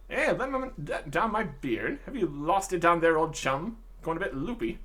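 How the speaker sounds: lightly hammed-up British gent; puzzled theatrical old chap; eccentric old-chap prisoner, baffled. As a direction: doubt a chum's sanity, jovially.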